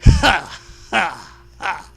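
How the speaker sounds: a flat, deliberate fake laugh; mock laugh, read not laughed; firm mock laugh. A narrator's reading. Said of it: "Zoe laughs firmly".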